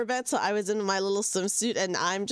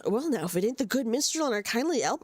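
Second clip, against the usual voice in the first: pirate voice. Acted. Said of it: "I can only do one pirate voice".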